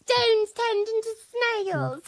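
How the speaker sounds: giggling. Real, not acted. Giggling while telling.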